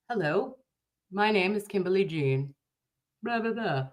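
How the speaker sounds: a hint of a prim professional introduction. Nurse Kim shows her work voice, mildly prim and polite. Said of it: "I can do very, very nice and professional".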